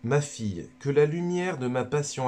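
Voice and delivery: lightly voiced Jesus addressing a daughter; a hint of a solemn Jesus, barely shifted; Jesus speaking. Jesus speaks to Luisa, only lightly voiced. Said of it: "c'est Jésus qui parle à Luisa Picaretta".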